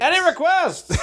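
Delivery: showman call. Retold or imitated. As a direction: play to the crowd like a showman. Showman doctor addressing crowd.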